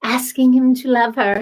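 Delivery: measured, lightly acted romantic film line; hesitant attempt at a movie heroine's line; movie quote voice. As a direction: recite it slightly low, phrase by phrase. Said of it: "I don't know what that voice is".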